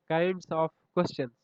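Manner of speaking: very slow, each word spaced for the title; slow topic title. Shown as a demonstration. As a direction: announce the heading slowly, like writing it on the board. Teacher announces the next topic. (نئے موضوع کا عنوان بہت آہستہ بولیں)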